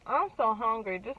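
muffled through hand, chewing; speaking while eating, covering mouth; talking with hand over mouth. Real, not acted. Seen 2: Hand covers mouth mid-bite from 1.1 to 2.3s; no R frame shows it.

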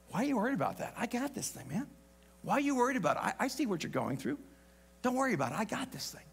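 soft, reassuring, almost murmured; calm a worried friend quietly; God's gentle voice. Pretend. God reassuring a worried believer, soft and calm. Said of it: "I hear God say".

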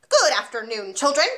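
loud, curt headmistress bark; barked greeting. Acted. Headmistress barks a greeting at her class, loud and curt. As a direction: bark it at the class like a drill sergeant. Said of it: "she barked".

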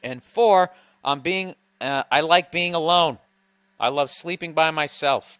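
lively, emphatic reading aloud; email read-out. Acted. Host reading a woman's list of arguments, emphatic read-out.

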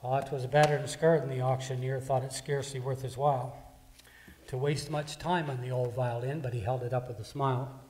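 measured, ringing recital of a poem; poem recitation. Acted. Preacher reciting the violin poem to the congregation, ringing and measured.

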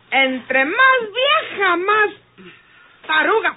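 slow, emphatic reproach; exasperated woman scolding her tipsy friend. Acted. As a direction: drag each word out to scold her. Teresa scolding drunk Tacha.

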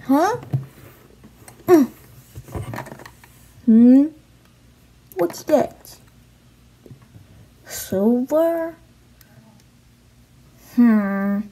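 awful put-on British accent. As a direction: play Harry and Ron in a clumsy British accent. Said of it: "sorry for the awful British accent".

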